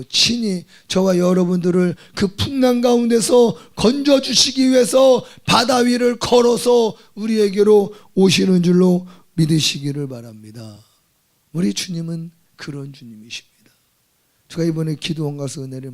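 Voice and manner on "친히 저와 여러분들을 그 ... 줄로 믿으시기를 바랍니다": fervent Korean pulpit cry; full-force preaching. Acted. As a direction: build the sermon to a shout. Preacher builds again.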